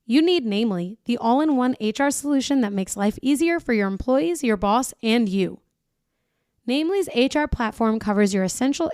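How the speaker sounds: polished podcast sponsor read. Acted. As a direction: sell it in an upbeat, even announcer flow. Reads a sponsor ad.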